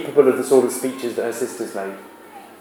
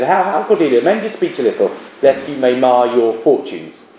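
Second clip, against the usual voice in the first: gentle father. Acted. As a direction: coax her gently, slowing at the end. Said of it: "he's still gentle with her here".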